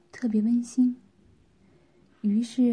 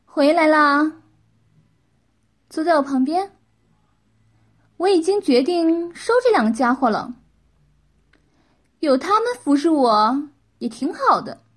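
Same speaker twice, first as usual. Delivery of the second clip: high, loud lady of the house; bossy wife; 5 semitones higher, 7 dB louder than usual. Acted. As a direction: announce it brightly from on high, loudly.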